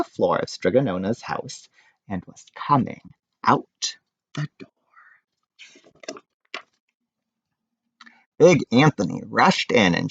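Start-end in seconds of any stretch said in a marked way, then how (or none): 2.1-6.2 slow, softer narration; hushed. A narrator's reading. Narrator telling the pasta spilling out the door, hushed. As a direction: let it creep out slowly.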